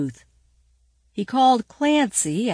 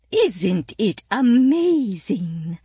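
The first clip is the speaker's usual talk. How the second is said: put-on old lady voice; 3 dB louder, slower than usual. A narrator's reading. Old lady from Beacon Hill.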